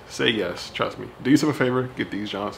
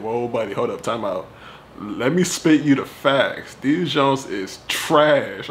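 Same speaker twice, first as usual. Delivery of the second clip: imitating a commenter; 3 dB louder, slower than usual. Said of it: "Somebody came in and said".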